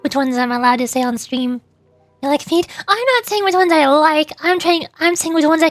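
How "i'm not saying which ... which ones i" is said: defensive protest. Real, not acted. Defensive reply to chat about kinks.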